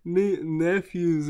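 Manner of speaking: a hint of a tearful mother; mom voice. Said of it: "She's like".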